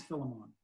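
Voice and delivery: Philemon as FILL-uh-mon, ending like "mon"; joking Jamaican pronunciation. Shown as a demonstration. Host joking about Jamaicans, Philemon ending in MON. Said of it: "If you're Jamaican".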